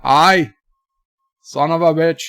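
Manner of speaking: lightly put-on Canadian accent. Shown as a demonstration. Streamer counting fake ways, mock Canadian accent.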